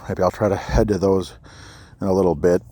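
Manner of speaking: slightly winded while walking; talking a bit short of breath. Real, not acted. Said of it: "Sorry if I sound out of breath".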